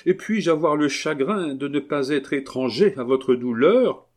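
high, fervent exclamation; crying out. Acted. Abbé protesting his devotion to the marquise, high and fervent. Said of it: "s'écria-t-il".

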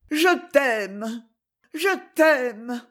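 high, impassioned love call; ardent declaration. A narrator's reading. Woman sending a passionate kiss to her lover, ardent.

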